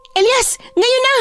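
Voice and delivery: urgent command. Acted. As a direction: cry the signal to strike. Signals attack on monster. (pasigaw na hudyat)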